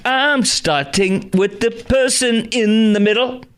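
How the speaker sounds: crooning a silly rewritten lyric through laughter; laughing mock sing-song.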